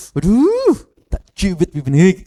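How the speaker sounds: high, squealed cute-aggression; acted gushing with a high swooping "aduh"; gushing over baby. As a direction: coo as if dying to pinch a baby's cheek. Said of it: "kan gemes, perasaan gemes toh".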